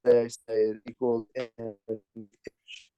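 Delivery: garbled, cutting out online; words dropping out over the mic; scrambled voice. Real, not acted. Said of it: "Can't hear you well".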